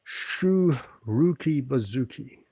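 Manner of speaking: slow, deliberate Russian accent, "Shu" with an oo vowel. Shown as a demonstration. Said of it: "putting on a Russian accent".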